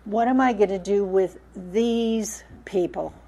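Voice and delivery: exasperated, weary sigh of a question; frustrated. Shown as a demonstration. Moses pleading with the Lord over the people, frustrated. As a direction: voice Moses at the end of his rope. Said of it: "you can hear the frustration in his voice".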